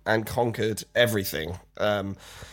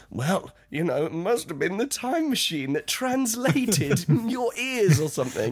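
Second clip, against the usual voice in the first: light Stone Age bluff; 8 semitones higher than usual. Retold or imitated. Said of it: "I'm like".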